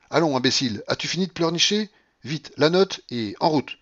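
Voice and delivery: impatient scolding. A narrator's reading. Babouchka to snivelling Marfa, impatient scolding. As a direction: hurry the weeper along crossly.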